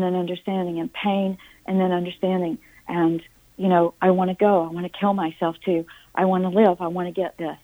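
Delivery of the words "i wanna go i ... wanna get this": dramatic vacillating. Retold or imitated. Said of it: "vacillating in a very dramatic way".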